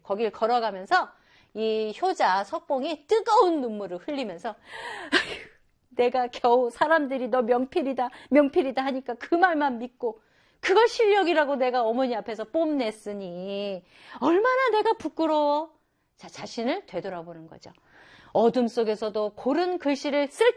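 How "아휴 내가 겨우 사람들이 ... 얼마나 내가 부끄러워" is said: sighing son, ashamed; regretful son. Acted. (부끄러워하는 아들)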